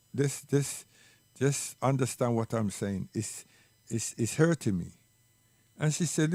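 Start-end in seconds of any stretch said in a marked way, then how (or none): 0.1-4.9 low, subdued retold plea; hurt pleading. Child telling mother that it hurts, quietly pleading. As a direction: stumble softly into a quiet appeal.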